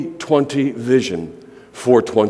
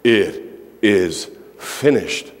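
quiet firm declaration; 4 semitones lower, slower than usual. Shown as a demonstration. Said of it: "No, you need to say".

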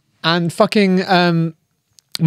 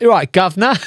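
hammed-up Cockney English accent, a little higher; mock English accent; 4 semitones higher than usual. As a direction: put on a cheeky English "governor" accent. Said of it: "his English accent".

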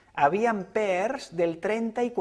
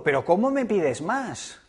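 mild mock anger; 2 semitones higher than usual. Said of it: "Y yo, muy enfadado".

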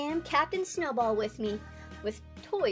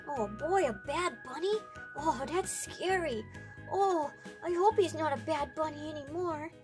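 worried toy dinosaur; Rex; 4 dB quieter than usual. Acted. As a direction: fret softly over something scary. Timid Rex finds it scary.

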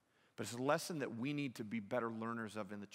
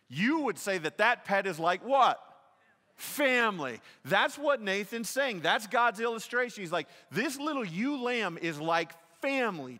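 loud, driving sermon delivery, much higher and louder; preaching at full force; 8 semitones higher, 12 dB louder than usual. Acted. Preacher telling Nathan's parable to the congregation, loud and driving. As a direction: preach it out to the whole room.

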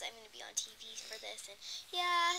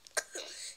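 fake cough. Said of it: "Let's pretend coughs".

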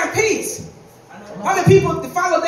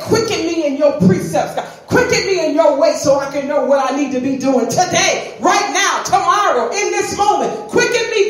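punchy, climbing sermon plea; fervent preached prayer. Acted. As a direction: preach it as a rising cry to God. Cries out scripture as prayer.

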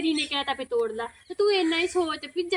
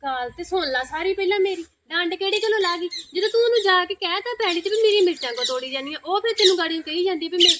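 louder, higher heated telling-off; scolding neighbour; 4 semitones higher, 5 dB louder than usual. Acted. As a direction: scold her friend loudly and hotly. Friend scolds in acted quarrel. (ਉੱਚੀ ਤੇ ਤਿੱਖੀ ਆਵਾਜ਼ 'ਚ ਝਿੜਕਣਾ)

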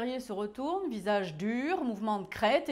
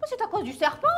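high, louder frightened frog; frog crying out; 9 semitones higher, 6 dB louder, much faster than usual. Acted. The frog blames the snake to the chief, high and frightened. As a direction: cry out as the scared frog. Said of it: "cria-t-elle".

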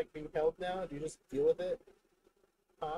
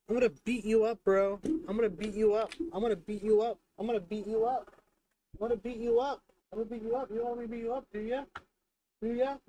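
playful mock threat; 5 semitones higher, faster than usual.

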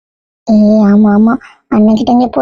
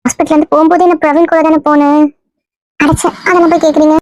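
a lightly put-on female voice, playing the girlfriend; man passing himself off as a young woman; woman's voice. Disguised man fooling the family in a mild girl's voice. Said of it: "இன்னும் பொம்பளை குரல்ல தான் பேசுற".

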